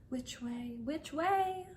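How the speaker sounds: fretful question asked of yourself; anxiously. Acted. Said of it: "said anxiously to herself".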